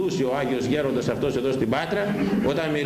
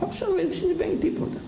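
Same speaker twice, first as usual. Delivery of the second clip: much higher, sneering mock; mocking falsetto. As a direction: toss it off in a high mocking voice. Mocks the careless mothers. (ψιλή κοροϊδευτική φωνή)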